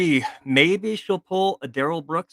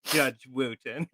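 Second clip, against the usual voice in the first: slow, drawn-out mock courtroom address; Sarah Boone; 5 dB quieter, much slower than usual. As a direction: mimic her, stretching out the judge's name. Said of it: "have a little Sarah Boone".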